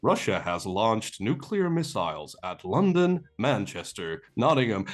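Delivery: lightly voiced, slow emergency announcement; news alert voice. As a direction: read it out slowly, like an alert from a phone. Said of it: "I hear come out of his phone".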